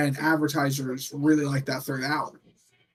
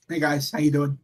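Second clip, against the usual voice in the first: Tony Khan normal voice; 2 semitones lower than usual. Acted. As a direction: introduce yourself casually, without any promo hype. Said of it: "When he has a voice like this".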